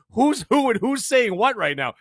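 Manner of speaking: high, slow mock bewilderment; mock confusion. Podcaster imitating chat viewers lost in the back and forth, mock confusion.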